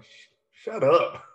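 high hissing whisper-yell; whisper-yell shut up at him; stage whisper. Retold or imitated. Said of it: "Don't you whisper to me".

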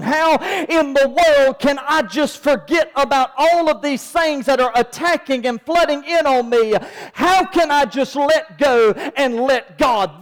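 fervent, unbroken preacher's cadence; full-force preaching. Real, not acted. Preacher warning congregation about lions and the devil, full-force preaching. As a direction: hammer it home for an amen.

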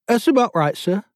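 put-on lieutenant answers the board in Australian accent. A narrator's reading. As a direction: answer crisply with Australian vowels. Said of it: "Jiff's accent had a startling effect".

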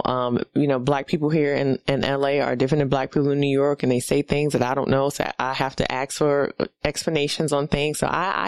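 ordinary delivery

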